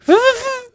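very high imitated Yoshi noise; Yoshi impression squeal. Reviewer shows he could voice Yoshi, high squealed impression.

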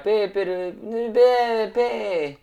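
hammed-up Peruvian filler pe; Peruvian pe imitation. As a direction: squeak out the Peruvian pe. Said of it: "él decía".

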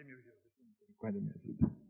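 barely voiced, whispered plea to God; whispered prayer. Pastor quietly praying for his own life, whispered. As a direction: breathe it out as a private prayer.

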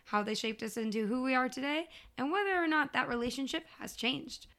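upbeat show opener; podcast host intro. Acted. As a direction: welcome the listeners in.

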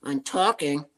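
ventriloquist voice, lips kept still; talking with mouth closed. Shown as a demonstration. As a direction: speak without moving your lips. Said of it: "Talking without moving my lip".

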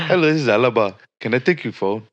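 a mock Arab accent that slid out of the Irish one; a jokey, slipped Arab accent; botched Arab accent. Goofing on stream after the accent slips, mock Arab accent. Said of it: "I went from Irish to Arab".

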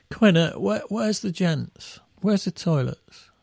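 mock a helpless musician; a hint of a lost child asking for the loo; bleary musician asking. Musician asking tour manager.

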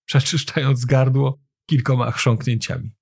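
plain reading voice

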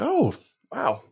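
high-pitched imitated amazement; retold surprise. Recalling calves that just started growing, imitated surprise. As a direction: recall being wowed, pitch jumping way up. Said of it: "was like".

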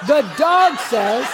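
slow pull-string toy announcer; lightly voiced toy, words drawn out; talking toy imitation. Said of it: "You discern on that toy by the voice".

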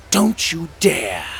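high, sharp, slow hiss of a warning. Acted. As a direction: snap the warning through the teeth, slow. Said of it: "hissed a voice in his mind".

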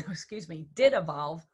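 throat catching while choking. Real, not acted. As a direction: push words out past a choking throat. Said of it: "I'm choking and I don't have water here".

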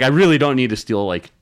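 aggravated denial. Retold or imitated. To the Walgreens cashier accusing him, mildly irritated retold denial. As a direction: push back at the cashier, annoyed but held in. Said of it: "really aggravated".

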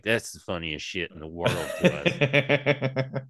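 giddy. Retold or imitated. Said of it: "kinda giddy 'cause I'm like".

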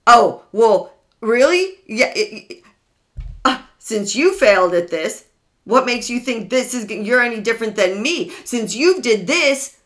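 mock taunting abuser. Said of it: "Bring up your past mistakes".

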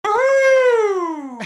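long, high, loud "woo"; excited trademark whoop. Real, not acted. Guest greeting the host with his trademark woo, excited whoop. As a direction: let out a big sustained whoop. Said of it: "There it is, the trademark".

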